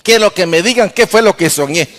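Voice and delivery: king's petulant demand, lightly acted; mild mock tantrum. King summoning all his magicians in a mild mock tantrum. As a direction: order them over in a mild tantrum. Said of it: "como berrinche".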